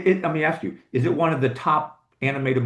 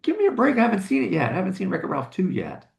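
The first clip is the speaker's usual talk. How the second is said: mock exasperated; 4 semitones higher than usual. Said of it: "I was like".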